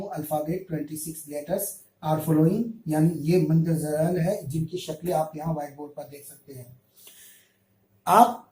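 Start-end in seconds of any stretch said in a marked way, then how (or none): 0.0-2.6 slow reading out. Shown as a demonstration. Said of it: "یہاں پر میں لکھ رکھا ہوں".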